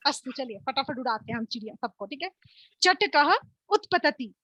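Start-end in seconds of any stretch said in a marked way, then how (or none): 2.8-4.3 slow, emphatic game calls. Shown as a demonstration. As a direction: call the birds out one by one, deliberately. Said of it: "तो मैं जल्दी जल्दी बोलूंगी". (धीमे, ज़ोरदार खेल की पुकार)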